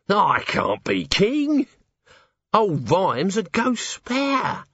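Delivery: slow, high wail; panicked refusal. Acted. Cornered guest refuses the crown, wailing in dread. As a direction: moan it in dismay. Nobby panics as plotters close in.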